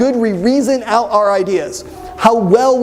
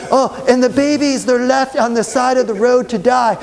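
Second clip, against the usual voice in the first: mock laughing; 3 semitones higher than usual. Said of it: "And she's laughing".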